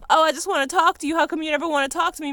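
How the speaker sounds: a hint of a needy whine, mocking; mocking whiny friend. Mocking a friend who begs to talk, sneering. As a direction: parrot them in a loud sneering mock whine. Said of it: "don't come at me trying to, like".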